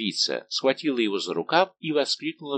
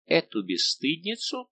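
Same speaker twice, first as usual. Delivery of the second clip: haughty; 7 semitones higher, slower than usual. A narrator's reading. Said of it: "высокомерно промолвила принцесса".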